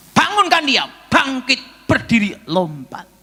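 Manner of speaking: high, loud commanding call; voice of God commanding. Retold or imitated. God telling the preacher to raise the sick man, high commanding call. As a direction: boom it out like a divine order. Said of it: "Tuhan bicara sama saya".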